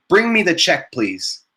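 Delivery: curt, bossy order with me pushed up high; demanding tone. Shown as a demonstration. Teacher mocks a blunt diner's demanding order. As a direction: snap it out like a pushy diner. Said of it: "a very demanding thing".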